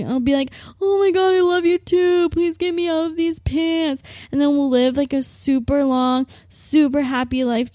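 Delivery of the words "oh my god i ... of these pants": high, hammed-up swooning; gushing reply. Herself answering the ex's confession, high swooning gush. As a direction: squeal it like a romance heroine. She gushes back her love.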